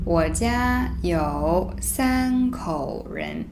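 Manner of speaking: slow, joined read; slow read-through. Shown as a demonstration. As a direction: read the whole line slowly. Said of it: "let me read it first".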